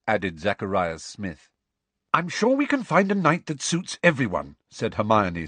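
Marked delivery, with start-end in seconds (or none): 2.1-4.6 slightly impatient. A narrator's reading. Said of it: "slightly impatiently".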